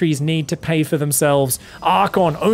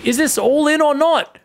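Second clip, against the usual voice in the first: voicing a player's doubts; 10 semitones higher, 4 dB louder than usual. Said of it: "He's going".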